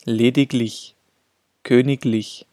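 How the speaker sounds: "Lediglich" as ledig-lich with a plosive g; hard g before -lich. Shown as a demonstration. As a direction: say "Lediglich" and "königlich" with a g sound before lich, not ch. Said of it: "wird G gesprochen".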